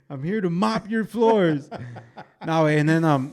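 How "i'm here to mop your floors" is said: slow, hammed-up Mexican accent; thick Mexican accent. Joking about working at Tesla, thick mock accent. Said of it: "speak with a, a thick accent".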